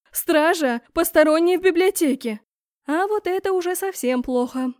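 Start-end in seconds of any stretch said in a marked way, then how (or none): 0.1-2.4 much louder, higher alarm call; calling the guards. A narrator's reading. Empress shouts for guards, alarmed. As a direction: call the guards across the hall.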